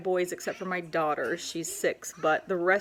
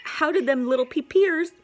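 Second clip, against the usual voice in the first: high exasperated rant; 11 semitones higher, 8 dB louder than usual. Real, not acted. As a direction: pitch shoots up, loud and exasperated. Ranting about pee on walls.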